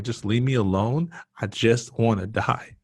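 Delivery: retold fed-up outburst; acted desperate plea. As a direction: push them away, worn out and insistent. Acted plea to doctor to stop.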